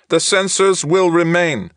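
high, slow flat machine voice; monotone translator voice. A narrator's reading. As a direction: state it flatly like a machine. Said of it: "the Troft insisted".

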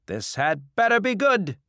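high, loud, wary challenge; suspicious. Acted. Bar owner doubting the debtor's offer, loudly suspicious. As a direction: warn him loudly that you doubt him. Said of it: "Kolu said suspiciously".

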